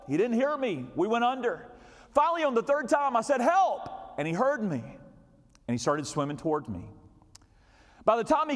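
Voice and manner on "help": booming high shout of "Help!"; preacher-voice cry for help. Retold or imitated. Drowning father shouting for help to a distant surfer, booming. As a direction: belt it out like a preacher. Third call, he finally hears.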